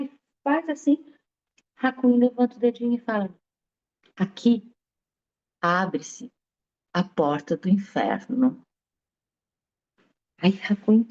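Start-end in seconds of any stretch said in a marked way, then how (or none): 4.2-8.6 solemn pronouncement. Acted. Sage's solemn teaching moment.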